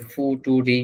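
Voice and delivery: future misread as "ফুটুরি", foo-too-ree; naive misreading. Shown as a demonstration. Teacher jokes about guessing from spelling, naive misreading of "ফুটুরি". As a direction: say "ফুটুরি" slowly with a hard t and final i. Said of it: "উচ্চারণ করা যেত না?".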